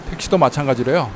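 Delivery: ordinary talk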